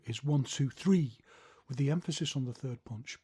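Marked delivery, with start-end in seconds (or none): 0.2-1.2 one two three, quick and loud; fast tempo count. Shown as a demonstration. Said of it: "the overall tempo is much faster".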